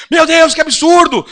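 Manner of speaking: indignant outburst. Retold or imitated. Angry passenger quoted.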